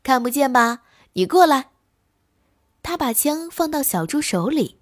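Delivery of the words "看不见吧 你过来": smug. Acted. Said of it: "得意地说".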